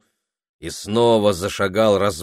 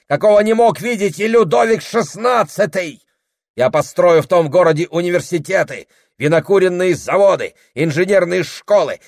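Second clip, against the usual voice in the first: higher, louder shouted list of conquests; grandiose boasting; 10 semitones higher, 7 dB louder than usual. A narrator's reading. Husband listing the city he will build, loud boastful shouting. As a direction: bellow every item like a proclamation. Prokhor lists his future empire.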